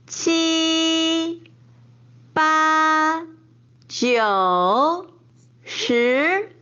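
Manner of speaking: one to ten, each tone clearly marked; counting with tones. Shown as a demonstration. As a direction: count slowly, landing every tone. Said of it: "let's count from one to ten together".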